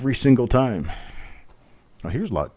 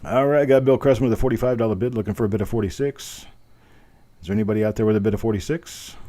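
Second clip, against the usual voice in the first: auctioneer voice. Shown as a demonstration. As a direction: sell it like a real auctioneer. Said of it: "I'm actually trying to sound like a real auctioneer".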